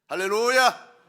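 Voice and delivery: loud ringing call; hallelujah shout. Real, not acted. Pastor rousing the congregation, loud hallelujah shout. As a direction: shout it out to the hall.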